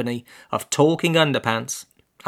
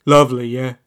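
judgy; 5 dB louder than usual. Acted. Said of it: "he said somewhat judgily".

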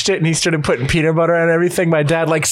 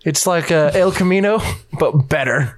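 put-on New Zealand accent. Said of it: "New Zealand accent".

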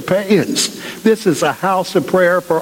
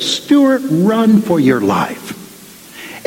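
urgent warning; 3 semitones higher, much slower than usual. Retold or imitated. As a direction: cry out his name, then drag out the warning. Friend shakes him, urges flight.

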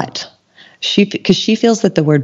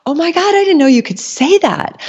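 amazed; 14 semitones higher than usual. Retold or imitated. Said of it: "And I'm like".

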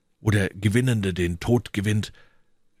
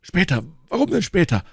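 high, insistent echo of Später; incredulous question; 7 semitones higher than usual. A narrator's reading. Athos pressing D'Artagnan to talk, incredulous and high. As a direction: throw Später back as a challenge, pitched up. Athos throws the answer back.

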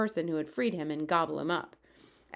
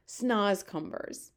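crying out; much slower than usual. Acted. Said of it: "he cried".

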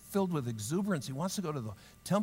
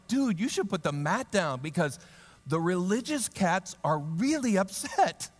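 casual dude. Retold or imitated. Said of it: "the way I would say it was like".

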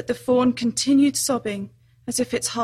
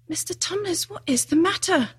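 gentle concern; 6 semitones higher than usual. A narrator's reading. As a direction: ask with tender worry. Lucy worried by the faun.

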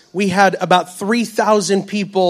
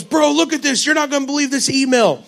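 lightly imitated excited preacher, pitched higher; a hint of a fired-up preacher friend; mock hype-man blurt, a touch higher; Lou Engle voice; 6 semitones higher than usual. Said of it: "He's got a voice kinda like Lou Engle almost".

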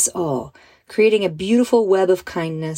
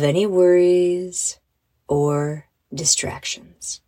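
unhurried breathing guide with long pauses; guided breathing; slower than usual. Acted. Leads a calming breath.

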